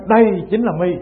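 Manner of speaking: lightly acted "caught you"; retold accusation. Master grabs the monk by the neck, mock triumphant accusation. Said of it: "ổng chụp cổ ổng nói".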